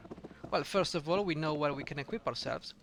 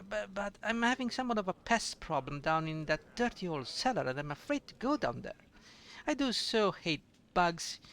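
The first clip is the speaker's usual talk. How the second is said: put-on sweet, fluttery old barmaid with little laughs; lightly voiced doting innkeeper; fussy tavern keeper; 3 semitones higher than usual. Innkeeper fussing over a guest, sweet and chatty.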